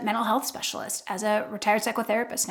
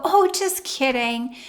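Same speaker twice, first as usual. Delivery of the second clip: snarky just kidding; slower than usual. Shown as a demonstration. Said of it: "say something snarky and then go".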